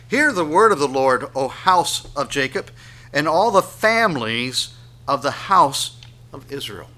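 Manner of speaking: loud, ringing verse reading; forceful public reading; scripture proclamation. Acted. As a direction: proclaim it to a whole nation.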